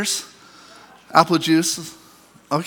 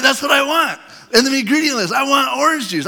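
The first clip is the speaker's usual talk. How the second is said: excited emphasis; 7 semitones higher than usual. Acted. Preacher's emphatic point about juice.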